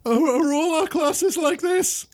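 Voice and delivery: high, slow, stammering question; bewildered pupil. Acted. Pupil questioning the professor after chaos, high and bewildered. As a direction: ask in dazed dismay.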